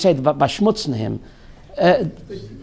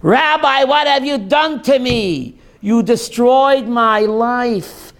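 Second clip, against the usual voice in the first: raised voice of a woman pleading with the rabbi; retold scream; 3 semitones higher than usual. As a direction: cry out at the rabbi, hurt.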